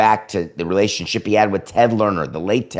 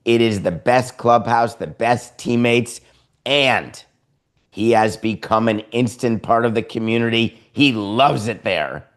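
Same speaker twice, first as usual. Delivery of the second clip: mocking agent spin. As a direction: lay it on thick like a slick agent. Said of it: "The agent comes out and says".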